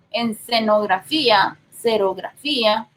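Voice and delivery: xerografía begun with an S sound. Shown as a demonstration. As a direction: say serografía with a plain S for the written X. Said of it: "que puede sonar como S".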